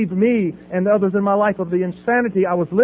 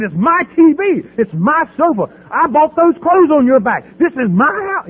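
retold angry claim; 7 semitones higher, 4 dB louder than usual. Father punching son, claiming his property, mock angry. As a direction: stake your claim to the house.

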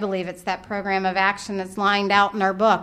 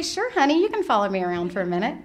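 sweet calm reply; faster than usual. Retold or imitated. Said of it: "instead of that coming out of my mouth".

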